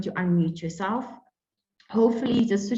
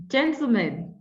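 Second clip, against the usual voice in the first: laughing; 5 semitones higher, 4 dB louder than usual. Real, not acted. Moderator laughs at the question.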